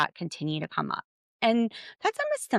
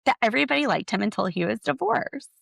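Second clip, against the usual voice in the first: mock exasperated; 4 semitones higher than usual. Podcaster talking to herself about Cody in exasperation. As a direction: scold yourself in disbelief. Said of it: "some days I'm like".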